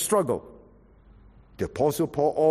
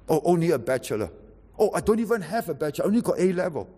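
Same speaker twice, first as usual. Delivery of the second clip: rival boasts; 5 semitones higher, faster than usual. Retold or imitated. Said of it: "with this attitude".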